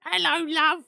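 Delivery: sing-song "Hello, love" in a high put-on voice; flirty British greeting. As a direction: purr it like a charming Brit. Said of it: "I recorded myself just being like".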